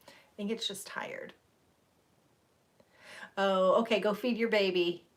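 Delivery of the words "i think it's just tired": soft tired whisper. Real, not acted. Streamer confiding her tiredness in a whisper. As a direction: let it slip out barely voiced.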